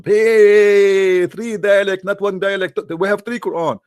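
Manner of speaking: mock outraged protest. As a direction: protest in disbelief. Muhammad protests three dialects.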